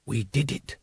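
soft, hushed whisper. A narrator's reading. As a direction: breathe it in awe. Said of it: "he whispered".

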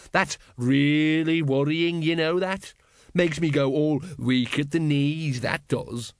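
slow, sneering mock fear; a tough pretending to tremble; lightly voiced sarcastic thug. Gang leader mocking the lady.

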